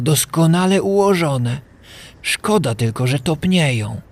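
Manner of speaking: marvelling. A narrator's reading. Kaj admires magnified snowflakes for Gerda, awed. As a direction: draw out the words in fascination.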